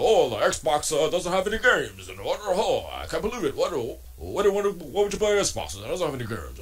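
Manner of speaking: lightly voiced mock whiny console-war rant; mocking podcast hosts. Mocking console-war hosts, mild whiny rant voice. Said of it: "they start talking about".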